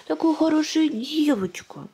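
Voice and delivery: high, slow cooing praise; squeaky praising a dog. Real, not acted. Praising baby.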